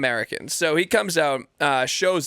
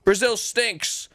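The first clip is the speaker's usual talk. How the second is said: drawn out, higher sneer; slow high mock promo; 6 semitones higher, much slower than usual. Imitating a fighter trash-talking Brazil, slow and high. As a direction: stretch it like a cheesy heel promo. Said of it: "he was like".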